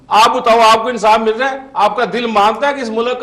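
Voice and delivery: loud, fast and high rhetorical question; host pressed hard in a loud, fast rhetorical question; heated challenge. Real, not acted. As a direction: demand an answer from the host. Challenging the host, louder and faster.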